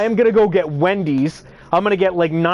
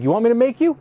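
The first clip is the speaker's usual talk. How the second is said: raised pitch, disbelieving question; retold confrontational challenge; challenging comeback; 5 semitones higher, faster than usual. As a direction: throw the dare straight back at them.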